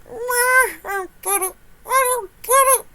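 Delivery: high, laughing repeat; tearful laughter; laughing disbelief. Real, not acted. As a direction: squeak it out through laughter. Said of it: "laughing so hard that I am crying".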